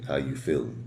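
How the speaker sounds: unhurried greeting with long pauses; slow and clear. Shown as a demonstration. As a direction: take your time, let each word land. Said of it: "you'd be like".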